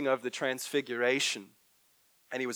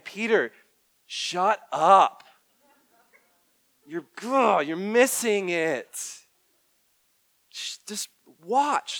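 higher, louder exasperated rebuke; God scolding Peter; 6 semitones higher, 7 dB louder than usual. Pretend. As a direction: cut him off, fed up. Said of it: "it's like God saying".

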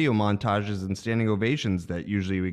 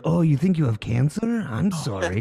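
Bond villain voice; 3 semitones higher than usual. Retold or imitated. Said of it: "we always made him sound like a Bond villain".

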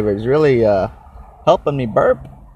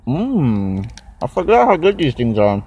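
mouth full; 3 semitones higher than usual. Real, not acted. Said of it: "Eat my Cliff Bar".

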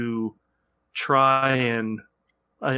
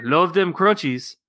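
playful storybook kitty, higher and lifted; Skippy John Jones; 5 semitones higher, 4 dB louder than usual. Acted. Dad reading picture book aloud, gleeful kitty voice. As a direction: relish it as a cartoon cat. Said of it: "exclaimed the kitty boy".

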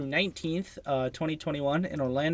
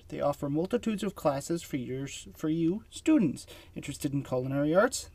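ad read. Acted. Reads a sponsor ad.

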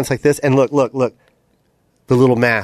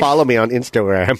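mock Vietnamese accent; 3 semitones lower than usual. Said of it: "Sounds like an evil Vietnamese raccoon".

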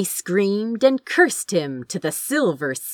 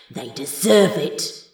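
wild thought; 4 semitones lower than usual. A narrator's reading. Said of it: "he thought wildly".

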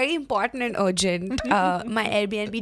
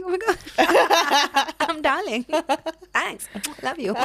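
giddy flattered; 4 semitones higher, slower than usual. Retold or imitated. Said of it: "And I'm like".

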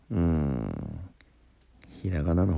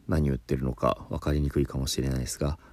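ordinary delivery

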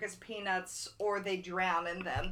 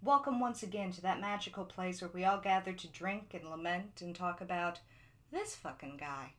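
late night radio host voice; 5 dB quieter than usual. Acted. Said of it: "like, late night radio host voice".

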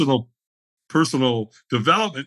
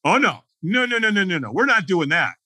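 mock panicked refusal; 5 semitones higher than usual. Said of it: "this is what the dialogue in my head".

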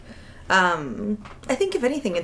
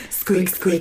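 mock squeak. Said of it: "turn around the guy and go".

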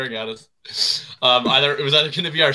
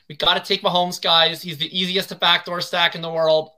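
higher-pitched send-up of a colleague; playful impersonation, pitched up throughout; Davis Maddock; 5 semitones higher than usual. Retold or imitated. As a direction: put on someone else's higher voice. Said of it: "do my best Davis Maddock impersonation".

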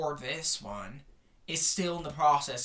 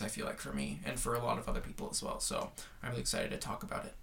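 creaky vocal fry; 3 semitones lower than usual. Real, not acted. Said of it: "my vocal fry is really just on eleven right now".

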